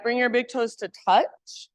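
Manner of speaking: usual speaking voice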